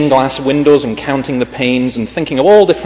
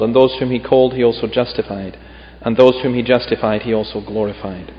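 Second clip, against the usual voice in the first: measured, solemn Bible reading; scripture reading. Acted. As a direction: read the passage with weight, phrase by phrase. Reads scripture aloud.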